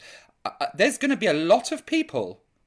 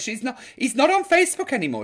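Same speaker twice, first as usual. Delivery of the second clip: quoting a viewer again; 5 semitones higher, 3 dB louder, faster than usual. Retold or imitated. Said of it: "she says".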